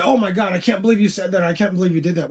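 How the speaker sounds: mock disbelief. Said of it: "and then you say".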